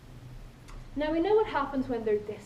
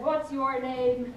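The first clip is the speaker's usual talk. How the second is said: slow, louder repeat of the question; guard demands the boy's name, slow and louder; 4 dB louder, much slower than usual. Retold or imitated. Guard asking again, slow and loud. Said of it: "in a louder voice he said".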